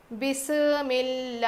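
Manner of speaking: بسم اللہ rushed with a bounce, the wrong way; hasty mispronounced bismillah. Shown as a demonstration. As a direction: show بسم اللہ as it should not be said. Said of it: "ایسے نہیں".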